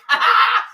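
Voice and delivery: sharp high burst of laughter; high cackle. Real, not acted. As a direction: cackle at your own joke. Laughs at own joke.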